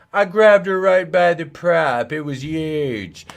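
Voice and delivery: high, loud braggart, slow and drawn out; mock boastful voice. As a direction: brag it like a proud fool. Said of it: "I was like".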